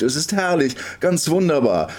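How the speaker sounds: high, elated exclamation; delighted call. A narrator's reading. Girl enjoying the swing, calling happily. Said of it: "und sie ruft".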